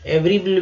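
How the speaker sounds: एवरी with the middle sound dropped; wrong version. Shown as a demonstration. Teacher showing students the wrong way, mistaken form. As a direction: show एवरी as the mistake to avoid. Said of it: "लेकिन वो नहीं बोलना है".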